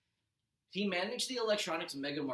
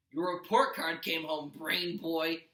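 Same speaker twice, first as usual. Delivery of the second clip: shouting after; 6 dB louder, slower than usual. Acted. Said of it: "he shouted after me".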